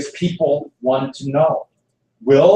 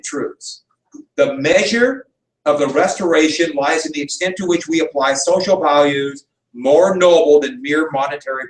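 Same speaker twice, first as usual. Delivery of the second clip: speech reading. Acted. Teacher reading one more part of the inaugural, measured oratory. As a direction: deliver it as a measured public address.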